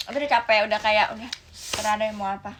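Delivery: fed-up mother. Acted. Exhausted mother gives up.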